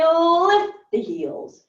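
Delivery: loud, high, very slow stretch; drawn-out coaching call. Real, not acted. Coach urging the class to lift, drawn-out call. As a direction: draw the first word out to match the rise.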